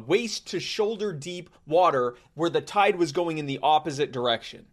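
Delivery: wired, high, rapid-fire energy; too much caffeine. Real, not acted. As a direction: bounce off the walls with excitement. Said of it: "I had three cups of coffee and a bang today".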